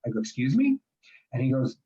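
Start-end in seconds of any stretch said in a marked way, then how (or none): 0.2-0.8 much higher, stunned excuse me; retelling his own disbelief; shocked disbelief. Retold or imitated. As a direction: replay the jolt of surprise. Retold shock, seeing eye dog.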